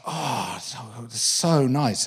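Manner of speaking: slow, soft contented murmur; softly sighing with pleasure; blissful sigh. Retold or imitated. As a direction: melt under the massage. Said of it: "it's like".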